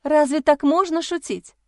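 she's outraged by the joke; indignant. A narrator's reading. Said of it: "возмутилась я". (возмущённо, выше и громче)

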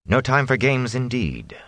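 calm, cutting reply; cool and dismissive. Acted. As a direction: brush the anger aside coolly. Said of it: "Moraine cut her off".

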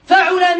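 فعل said fa-'u-la, middle vowel u; damma on ain. Shown as a demonstration. Teacher listing verb patterns, فعل as fa'ula. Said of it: "فعل بضم العين".

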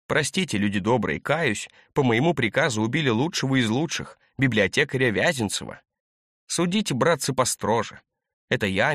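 hammed-up public confession; playing the penitent sinner, ironic; mock repentance. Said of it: "не юродствуйте".

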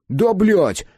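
loud, high curse of a frustrated driver; angry swearing. A narrator's reading. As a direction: spit out the curse in anger. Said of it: "выругался водитель".

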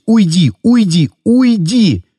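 mounting desperate pleading; desperate plea. A narrator's reading. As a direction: beg him to go, voice climbing. Begging him to leave.

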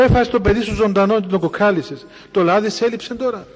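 loud, scolding reproach to the mother; indignant retort. Retold or imitated. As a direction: rebuke her sharply, half in disbelief. Priest's indignant retort retold.

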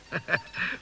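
short chuckle. Acted. Street man amused by companion feeling cold, chuckling. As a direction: chuckle softly to yourself.

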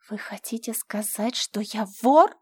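ordinary delivery, nothing marked

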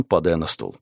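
ordinary delivery, nothing marked

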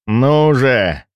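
strained, rasping cry; hoarse rasp. Acted. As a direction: rasp it out, drained. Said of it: "прохрипел я".

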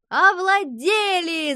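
high, slow, drawn-out teasing yell; shouting. A narrator's reading. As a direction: kids mockingly echoing the coach. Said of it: "закричали ребята". (высокий медленный дразнящий крик)

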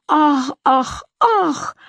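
high, sneering sung sighs; mock her in a sing-song; a husband taunting his wife in sing-song. A narrator's reading. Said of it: "пропел он издевательски".

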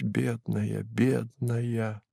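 soft tender murmur of «Бедная, бедная»; muttering softly. Acted. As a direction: mumble it into her hair. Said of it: "стал бормотать".

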